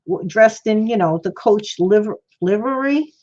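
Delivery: speaking with no teeth; words slurred without teeth; toothless. Real, not acted. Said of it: "Can't say some of these words, especially with no teeth in my mouth".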